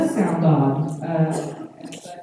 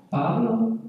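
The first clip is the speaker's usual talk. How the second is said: PABLO said higher, with telling inflection; loaded name; 5 semitones higher, 4 dB quieter than usual. Shown as a demonstration. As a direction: say "Pablo" so he knows he's in trouble. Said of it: "how we just say the name of the child".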